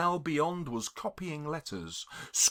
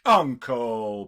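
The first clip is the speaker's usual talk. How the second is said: pleading; 4 semitones lower, 3 dB louder than usual. Acted. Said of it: "pleaded the nephew".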